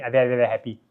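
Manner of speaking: "very, very, very" run together with shortened vowels; Singlish-style "very", syllables swallowed. Shown as a demonstration. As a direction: clip the vowels in each "very". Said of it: "we tend to shorten the vowel sound".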